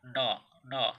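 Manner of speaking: trying "न" with the nose held shut; blocked-nose attempt at "न", unable to sound it; nose pinched. Shown as a demonstration. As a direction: say "न" twice with nostrils pinched closed. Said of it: "हम लोग नाक पकड़ ले".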